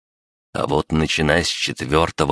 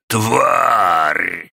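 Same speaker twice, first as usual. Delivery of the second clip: raised, higher furious cry; furious shout; 6 semitones higher, 4 dB louder than usual. Acted. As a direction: spit out the insult at full force. Final cry of the attack. (яростный выкрик)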